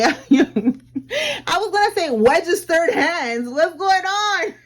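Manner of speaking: slow slurred words; tongue won't cooperate; talking funny. Real, not acted. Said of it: "why am I talking funny today?".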